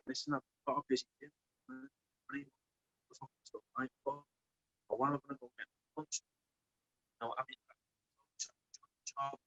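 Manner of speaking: muffled, mic covered by a hand; muffled and cutting out, far off. Real, not acted. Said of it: "I think you're covering the mic".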